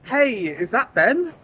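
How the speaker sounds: slow, high, uncertain question; stiff formal check. Shown as a demonstration. Cold caller checking the name, stiff. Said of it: "Rather than".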